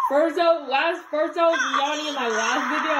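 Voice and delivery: talking through hiccups; hiccuping. Real, not acted. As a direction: hiccups breaking up the words. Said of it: "I got the hiccups now".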